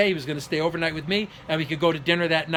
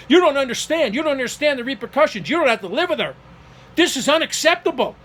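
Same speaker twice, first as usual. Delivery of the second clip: higher-pitched imitation of a panicking father; imitated freak-out; 5 semitones higher than usual. Father protesting to his son about the rental, imitated freak-out. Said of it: "He starts to freak out".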